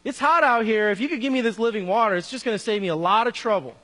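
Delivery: quick, lightly hammed-up sarcasm; sarcastic. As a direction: act out her sarcastic comeback. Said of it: "you can sense the sarcasm here".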